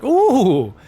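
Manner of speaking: loud, high ooh of mock delight; savoring ooh. Fan licking salty fingers, loud high savoring ooh. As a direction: moan over the taste of the chips. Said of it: "licking your fingers like".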